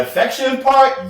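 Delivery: high, slow mocking squeal. Answering a friend's question in a mock high squeal. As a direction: stretch it up high in mock disbelief.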